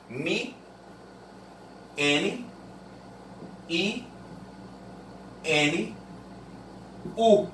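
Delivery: slow, each sound said on its own; "Mi, N, I, N, U" spaced out one sound at a time; sounding out phonemes. Shown as a demonstration. Teacher sounding out menino for the class. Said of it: "É assim que nós falamos".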